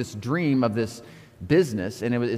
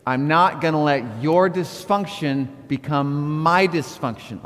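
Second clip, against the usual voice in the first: slow group recitation; slower than usual. Shown as a demonstration. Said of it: "Say it with me".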